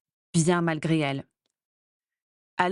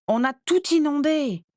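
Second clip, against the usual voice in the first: higher, louder delighted cry; excited exclamation; 7 semitones higher, 4 dB louder than usual. A narrator's reading. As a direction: shout it out amazed and thrilled. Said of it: "s'exclama Andromeda".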